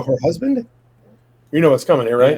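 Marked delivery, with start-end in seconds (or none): 0.0-0.7 retold disbelief. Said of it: "I go".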